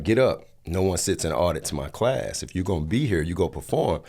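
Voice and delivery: loud, commanding teacher voice; retelling a pushy coach's command; bossy teacher. Retold or imitated. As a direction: order him up like a strict acting coach. Acting teacher ordering him up.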